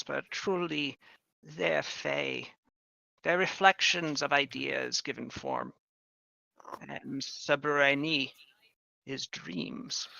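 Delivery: lightly voiced witch, measured and grave; a hint of a solemn witch. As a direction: explain old lore as the witch, with pauses. Game master speaks as the witch.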